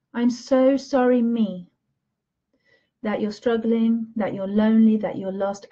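gentle, fading to a hush; tender self-comfort. Shown as a demonstration. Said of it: "you need to do that for you".

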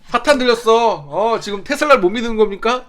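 hammy possessed-by-Satan accusation, loud and high; overacted preacher cry of possession; stilted old movie melodrama. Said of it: "연기 너무 못하시네".

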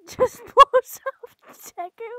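high, drawn-out yell; slow, loud, hammed-up blow-up; explosive outburst. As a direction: yell it out and stretch it.

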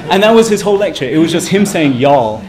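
laughing as he speaks. Real, not acted. Lecturer tells the audience about the y'all lecture, laughing.

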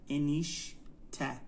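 انیشته slowly as انیش, pause, ته; word in parts. Shown as a demonstration. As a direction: sound out انیشته in two parts. Teacher splits the word again.

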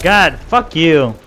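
long drawn rage curse; slow angry curse. Real, not acted. Raging at game opponent.

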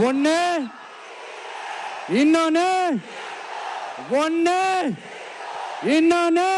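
naming the two rivals for the election, building to a shout. Real, not acted. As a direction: pound out the count, climbing. Counting two rivals, rising.

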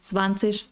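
"Zwanzig" slowly ending in sh; dialect sh ending. Shown as a demonstration. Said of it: "eso ya es un dialecto".

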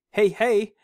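high, loud playful call. Acted. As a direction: call out to play. Mustang calling out playfully.

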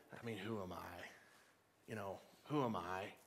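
mock self-doubt. Churchgoer voicing doubts to God, quietly unsure. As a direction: shrink away as you ask.

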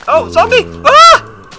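very high shriek; terrified scream. Real, not acted. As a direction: shriek at the zombie. Zombie appears.

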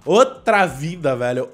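loud, drawn-out exclamation of amazement; empolgado. Real, not acted. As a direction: stretch it out loudly, really impressed. Celebrating a big improvement in game. (exclamação alta, arrastada e empolgada)

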